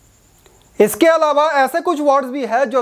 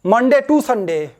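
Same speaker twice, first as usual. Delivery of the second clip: slow, careful read, stress on to; slow example phrase; much slower than usual. Shown as a demonstration. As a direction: set each word apart for learners. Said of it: "British English है". (धीमा उदाहरण)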